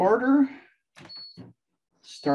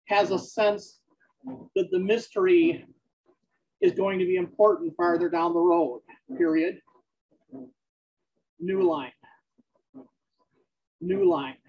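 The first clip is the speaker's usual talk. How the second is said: dictating text with spoken punctuation; measured dictation to a recorder, words spaced out. Acted. Dictates novel aloud on treadmill.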